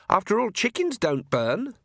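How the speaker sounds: high, petulant voice; whiny daughter. A narrator's reading. Spoiled daughter arguing back, whining. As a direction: protest in a high peevish tone. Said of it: "said the voice called lackey".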